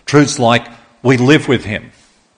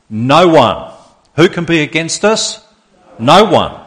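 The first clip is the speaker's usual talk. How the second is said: louder declaration of No one; united shout; 4 semitones higher, 5 dB louder than usual. Acted. Stadium crowd echoes back together, loud answer. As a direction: call it out as one voice. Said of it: "in one voice, the stadium echoes".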